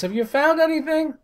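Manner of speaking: high, loud film-quote shout; loud movie villain impression; Dark Helmet. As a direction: call it out like a commander to distant searchers. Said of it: "Dark Helmet, says".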